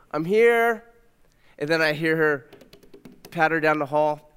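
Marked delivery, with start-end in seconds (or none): 0.1-0.8 calling back. Retold or imitated. Dad answering from afar.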